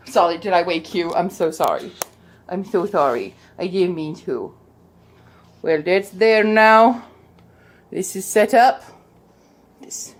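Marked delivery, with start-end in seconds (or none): 0.1-4.5 tender apology. Real, not acted. Apologizing to the dog she woke.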